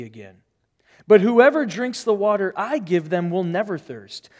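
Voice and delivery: expressive, measured Bible reading; dramatized reading with lively rises and falls; scripture reading. Acted. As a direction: read the story aloud to the congregation, leaning on key words. Reads the scripture passage aloud.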